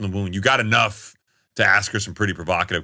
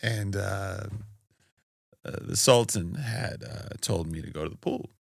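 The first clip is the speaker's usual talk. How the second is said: slow, unhurried storytelling voice, each phrase drawn out; 8 dB quieter than usual. Retelling exactly how Bill Clinton answered why he went in the pool: imitating Bill Clinton. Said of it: "I'll tell you the story exactly how he said it".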